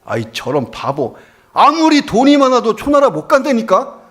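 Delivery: an annoyed local loses patience and snaps back; retold angry outburst. Local man angrily shouts at the foolish rich man. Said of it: "화가 나서 돌아서서 얘기했어요".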